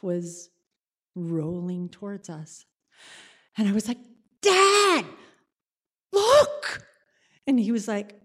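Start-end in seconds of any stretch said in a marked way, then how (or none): 4.4-6.8 high, alarmed cry to dad; alarmed call. Retold or imitated. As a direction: call out to dad in sudden fear. Spotting the storm, alarmed.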